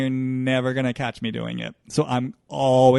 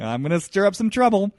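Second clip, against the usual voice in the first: mischievous voice; 5 semitones higher, 3 dB louder than usual. Acted. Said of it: "I hear this voice saying".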